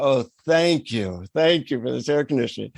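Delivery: mildly heartfelt gratitude, retold; sincere thanks. Hot traveler thanking universe for cool taxi, sincere. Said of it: "then sincerely say thank you".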